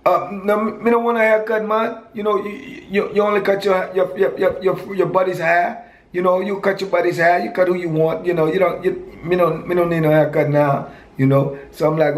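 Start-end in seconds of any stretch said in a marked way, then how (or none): 0.0-10.9 put-on raised, high-pitched Virgin Islands accent, brushing off the haircut. Prison friend refusing a haircut, in a raised Virgin Islands accent. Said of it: "I liked his accent".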